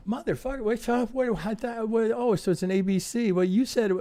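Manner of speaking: high-pitched mock protest of a caught-out trader; baffled trader.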